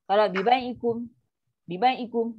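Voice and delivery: bai clipped short, not held; "bai" cut off too soon in "bi bai ikum"; cut-short recitation. Shown as a demonstration. Teacher demos the wrong clipped "bi bai ikum". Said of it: "tengok, ya tu dah kita caras".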